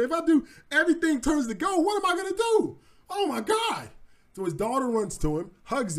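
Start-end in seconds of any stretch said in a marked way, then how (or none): 0.0-3.9 panicking. Acted. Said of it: "Then he starts panicking".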